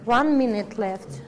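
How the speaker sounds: loud announcement to the room; calling out. Real, not acted. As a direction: call it out across the room. Calling out time to class.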